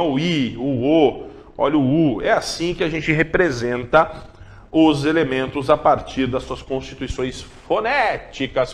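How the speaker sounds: usual speaking voice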